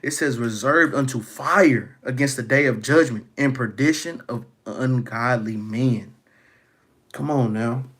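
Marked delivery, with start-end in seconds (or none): 0.4-6.1 louder, solemn scripture reading; preacher booming a verse of judgment. Acted. Reads scripture aloud, raised.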